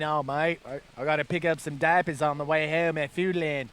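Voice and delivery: hint of a badly faked Aussie accent; bad Australian accent. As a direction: attempt an Australian accent, clumsily. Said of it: "my Australian accent needs some serious help".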